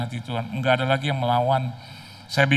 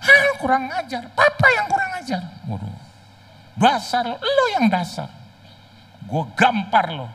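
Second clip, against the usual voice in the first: much higher, louder yelled insults; mock shouting match; 14 semitones higher, 3 dB louder than usual. Son and father cursing each other, high mock yelling. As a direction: scream the insults back and forth. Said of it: "anaknya maki balik".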